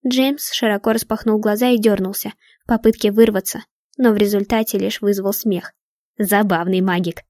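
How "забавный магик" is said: ordinary delivery, nothing marked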